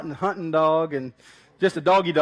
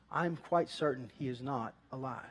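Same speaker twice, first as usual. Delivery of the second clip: hushed disbelief; 4 semitones lower, 10 dB quieter than usual. Retold or imitated. Narrator refusing to believe caller.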